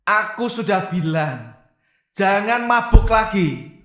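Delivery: slow, emphatic telling-off; mock scolding. Husband replying to his wife's love text, mock scolding.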